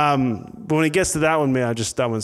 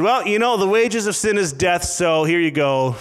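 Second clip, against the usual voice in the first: higher-pitched, offhand mock verdict; mock dismissive; 4 semitones higher than usual. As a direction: hand down the sentence with feigned casualness. Imagined dismissive verdict God didn't give.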